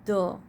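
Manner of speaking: "the" said as "duh"; short "thuh" for "the". Shown as a demonstration. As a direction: end "the" on a short schwa. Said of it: "pronunciate it".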